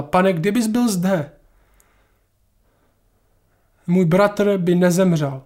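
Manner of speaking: slow, drawn-out grieving plea; understated lament. Acted. Mary at Jesus' feet after her brother died, understated lament. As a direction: let the mild reproach linger slowly.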